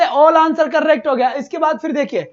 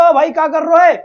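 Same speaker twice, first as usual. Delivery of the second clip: Karauli dialect; 6 dB louder than usual. Shown as a demonstration. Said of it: "जैसे करौली वाले बोलते हो".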